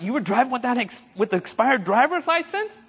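retold incredulous question, pitch climbing. Friend confronted over an expired driver's license, incredulous. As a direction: challenge a friend in mild disbelief.

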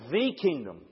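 "The" pronounced "thee" with weight; stress on The. Shown as a demonstration. Preacher contrasting God's kingdom with Satan's, stressing "The". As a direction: set "The" out as the one and only. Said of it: "The is an important word".

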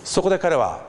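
normal talking voice

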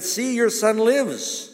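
high, slow, triumphant reveal; joyful announcement. Acted. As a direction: proclaim the miracle with joy. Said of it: "And he said".

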